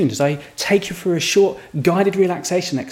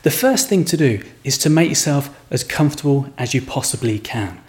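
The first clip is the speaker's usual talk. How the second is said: calm, measured meditation voice with pauses; guided relaxation; 4 semitones lower than usual. Acted. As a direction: ease the listener into relaxation, phrase by phrase.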